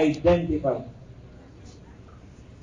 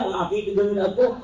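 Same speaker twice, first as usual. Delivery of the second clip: shocked; faster than usual. Real, not acted. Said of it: "Nasyak ako".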